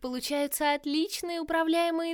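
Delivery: mock the heroes with cheerful menace; playful villainess. Villain Virus speaks.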